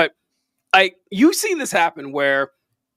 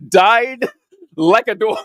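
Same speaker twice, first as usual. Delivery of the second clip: imitating Trump; 4 dB louder, slower than usual. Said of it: "when Donald Trump says".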